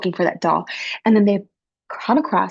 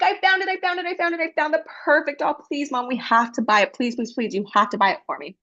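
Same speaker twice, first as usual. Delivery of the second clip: higher, eager pleading for the doll; a child who has found her doll; begging child; 5 semitones higher than usual. Acted. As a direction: plead with mom, excited. Girl begs for the doll.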